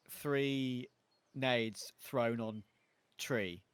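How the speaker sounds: slow Irish demo, three then tree; Irish accent. Shown as a demonstration. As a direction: say tree slowly with an Irish lilt. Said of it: "See, I'm doing it now".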